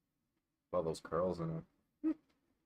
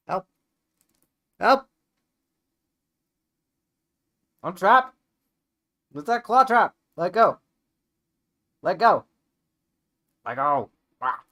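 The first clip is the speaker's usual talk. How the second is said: high loud half-laughing cries for help; mock panicked yells; 13 semitones higher, 17 dB louder than usual. Real, not acted. Stuck in the cat's claws, high loud mock panic. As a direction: cry out dramatically, trapped.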